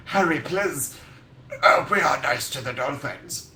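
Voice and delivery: put-on voice of a wounded company; imitated pleading SeaWorld. SeaWorld answering the singer, mock pleading. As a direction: plead in a silly, mock-hurt voice. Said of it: "SeaWorld were like".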